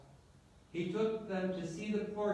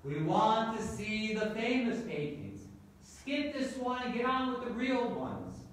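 impatient call from the crowd, pitch lifting; raised-pitch, restrained heckle; mild mock shout; 4 semitones higher than usual. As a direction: call out a demand without fully shouting. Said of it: "the voice in the back of the room shouted".

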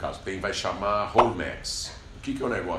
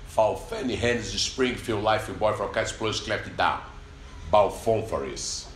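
English accent; slower than usual. Shown as a demonstration. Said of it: "vou falar com a pronúncia inglesa".

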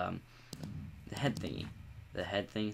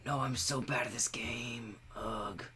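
whispering; 3 semitones higher, slower than usual. Real, not acted. Self-pitying after losing.

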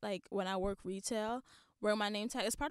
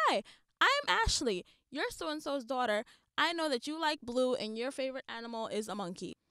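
mock gushing stranger; 3 semitones higher than usual. Imitating a gushing stranger named Ashley.

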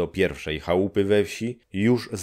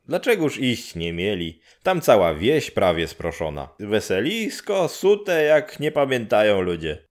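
put-on a matter-of-fact old neighbour; 3 semitones higher than usual. Neighbour explains.

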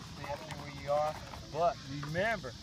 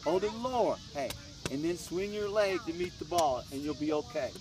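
loud coaching; 6 dB louder than usual. Real, not acted. Coaching punt technique loudly.

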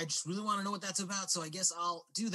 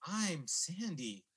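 slow, drawn-out coy introduction; seductive; 4 dB quieter, much slower than usual. Acted. Woman telling David her name, seductive. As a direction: stretch the name out flirtatiously. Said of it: "seductive saxophone emotion".

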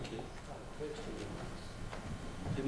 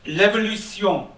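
title read in a put-on British accent, higher and louder; mock British accent; 4 semitones higher, 4 dB louder than usual. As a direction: announce the title with a hammed-up English accent. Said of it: "excusez-moi mon accent, britannique un peu".

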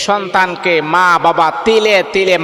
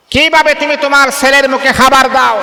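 higher and louder, hammering কিভাবে; impassioned rebuke; 8 semitones higher, 3 dB louder than usual. Acted. Preacher scolding the son who starves his mother, raised voice. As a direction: repeat the question as a ringing reproach.

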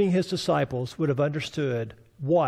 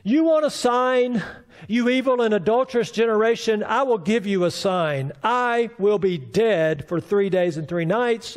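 Jesus rebuking; 4 semitones higher than usual. Retold or imitated. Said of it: "Here's Jesus then".

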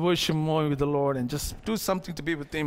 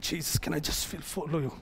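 much softer, lower voice; soft request; 4 semitones lower, 9 dB quieter than usual. Retold or imitated. Freed man asking Jesus to let him follow, softly. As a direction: imitate a humble, hushed plea.

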